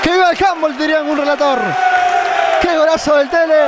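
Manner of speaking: shouted celebration; breakneck goal commentary. Acted. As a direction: cheer the goal.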